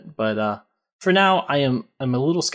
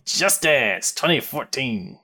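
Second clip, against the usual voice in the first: announcer voice; 2 semitones higher, slower than usual. Pretend. Mock dramatic game announcement.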